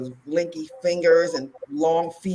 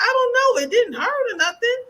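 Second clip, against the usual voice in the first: imitating her younger self; 4 dB louder than usual. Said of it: "I was like".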